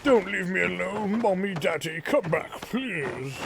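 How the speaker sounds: put-on a frightened young girl begging her parents not to leave; pleading little girl voice. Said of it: "It's hard to do this voice".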